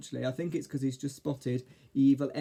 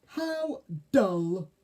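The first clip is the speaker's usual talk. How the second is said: higher, louder, drawn-out fairy disdain; Mavis; 5 semitones higher, 5 dB louder than usual. A narrator's reading. Fairy scorns caterpillar's climbing holiday, high disdain. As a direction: dismiss it high and loud.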